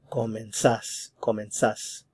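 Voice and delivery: comenzás with the weight on final "zás", repeated; stress on last syllable. Shown as a demonstration. Teacher repeating the vos form, comenzás stressed on "zás". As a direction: say comenzás, landing firmly on "zás". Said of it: "The stress is on the last syllable".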